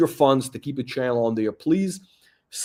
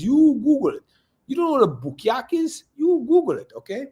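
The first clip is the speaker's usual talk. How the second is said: mocking taunt; 10 semitones higher than usual. Real, not acted. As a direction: jeer at them, pitch way up. Taunting about the word bukyak.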